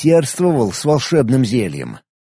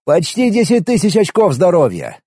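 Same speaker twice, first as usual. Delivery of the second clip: whistling in amazement; 4 semitones higher than usual. Acted. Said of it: "присвистнул я".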